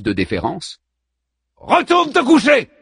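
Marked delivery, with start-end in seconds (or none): 1.6-2.7 high, loud dismissive order; disgusted command. A narrator's reading. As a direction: snap it out in disgust. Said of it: "lui lance la muse, dégoûtée". (ordre lancé avec dégoût)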